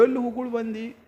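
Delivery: mock mumble, words muddied by chewing tobacco; mouth full. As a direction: imitate talking through a mouthful of betel. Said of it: "ಇವ್ ಬಾಯಿ ತುಂಬ ತುಂಬಿಕೊಂಡಿದ್ದು".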